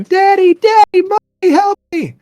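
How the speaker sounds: put-on high, loud child's wail; trapped girl screaming for help; crying girl. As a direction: cry out for your parents in terror. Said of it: "we can hear a girl crying".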